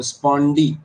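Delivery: स्पॉन्डी with equal weight on both halves; teacher demonstrating स्पॉन्डी as two strong beats; stress on both syllables. Shown as a demonstration. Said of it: "the way you pronounce it as spawn".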